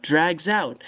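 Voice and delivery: "Drags out" joined as drag-zout; z liaison. Shown as a demonstration. Teacher showing liaison with S, z linking. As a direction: buzz the s of "Drags out" into the vowel. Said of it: "on fait liaison comme ça".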